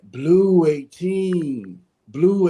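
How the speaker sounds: timid, hesitant snap count from a shy quarterback; shy cadence call. Retold or imitated. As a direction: call the count like a shy kid afraid to be heard. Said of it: "and I'm like".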